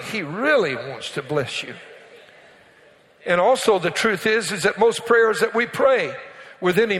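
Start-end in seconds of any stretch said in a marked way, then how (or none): 0.0-1.7 really leaned on, the rest kept soft; stress on really. Shown as a demonstration. Pastor stressing really to the congregation, leaning on the word. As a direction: press down on really and let the line fall. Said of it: "And I emphasize the word really".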